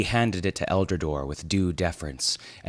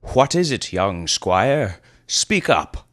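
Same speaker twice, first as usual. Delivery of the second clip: prompting; 3 semitones higher, 5 dB louder, slower than usual. Acted. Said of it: "prompted Eldrador from his ancient steed".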